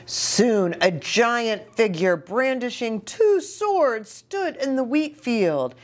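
put-on reading to children. Reads story to children.

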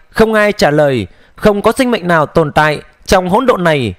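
ordinary delivery, nothing marked

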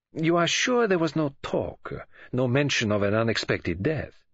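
lightly voiced foreign detective, deliberate; Poirot, probing. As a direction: press the question with careful precision.

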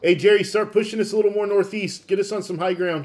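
loud command to Jerry; shouted order. Real, not acted. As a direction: call the order across the squad. Ordering over radio.

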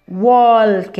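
teacher repeating "walk" for the class; model pronunciation. Shown as a demonstration. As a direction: punch out "walk" with the dark L. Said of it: "ال L راهي دارك".

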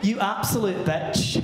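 camp monster. Retold or imitated. Monster insulting the wife.

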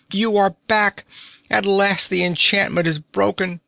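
put-on high, joyful old man voice; an overjoyed old uncle; excited old nobleman. A narrator's reading. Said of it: "cried the old gentleman".

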